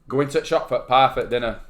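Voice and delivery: Bolton-style Lancashire dialect; Lancastrian accent. Shown as a demonstration. Showing co-host Bolton speech, Lancastrian accent. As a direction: say it in broad Lancastrian. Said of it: "We are Lancashire".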